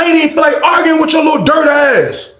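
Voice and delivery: high-pitched yelled put-down; hammed-up scornful shout; acted insult.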